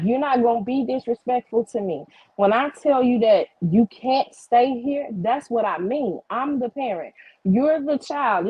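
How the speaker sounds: imitating a mother laying down the law; mock-authoritative parent voice; changed parental tone. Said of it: "she only talking like this now".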